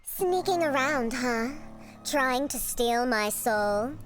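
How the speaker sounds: put-on slow, teasing silky girl; silky sweet voice. Mysterious girl taunting a frightened passer-by, silky and slow. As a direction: draw it out in a lightly silky voice. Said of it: "talking in such a silky voice".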